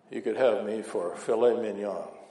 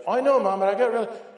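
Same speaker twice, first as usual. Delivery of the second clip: whiny son; 9 semitones higher, 5 dB louder than usual. Retold or imitated. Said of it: "son's excuse".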